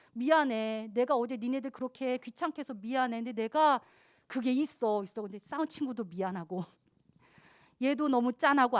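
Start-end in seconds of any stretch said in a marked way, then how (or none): 0.1-5.2 tearful apology. Retold or imitated. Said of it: "그러면서 막 우는 거예요".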